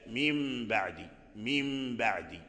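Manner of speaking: slow من بعد, meem nasalized before the ba; nasal ghunna on meem. Shown as a demonstration. Teacher modelling ikhfaa for the class, slow nasal hum. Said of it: "تنطق بالباء".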